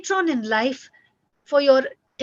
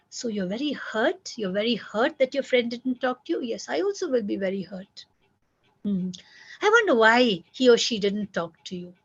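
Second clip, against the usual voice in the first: put-on understanding parent comforting a hurt child; gentle validating parent. Shown as a demonstration. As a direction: soothe and acknowledge the feeling. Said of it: "That's the way you talk to your child".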